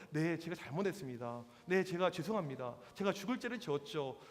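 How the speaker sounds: meek apology. Retold or imitated. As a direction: apologise humbly, as if placating an abusive caller. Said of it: "이 선생님 특징이 어떤".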